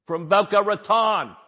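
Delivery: high-pitched mock New Jersey accent; hammed-up New Jersey voice. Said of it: "with a New Jersey accent".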